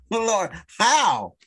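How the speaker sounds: a touch of comic bewilderment, stretching "how"; pleading biblical character. Acted. Moses asks the Lord how he ended up herding sheep, comic plea. Imagined prophet pleading with God.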